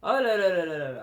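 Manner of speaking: loud, quick gushing exclamation; fast delighted oh là là; excited oh là là. Real, not acted. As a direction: burst out in delight at the dress. Excited over a dress.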